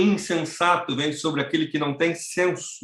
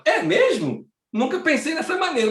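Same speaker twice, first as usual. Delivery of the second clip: put-on much higher, wide-eyed old woman; amazed old lady; 11 semitones higher than usual. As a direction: gasp it out like a grandma discovering something. Velha reage ao evangelho. (senhora idosa maravilhada, voz bem mais alta)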